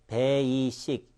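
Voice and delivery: "베이식" spread into even, separate syllables; wrong pronunciation contour. Shown as a demonstration. Teacher warns what learners may say without the contour, evenly spread "베이식". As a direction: say "베이식" syllable by syllable, Korean-style. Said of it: "이렇게 발음할 수 있는 찬스가".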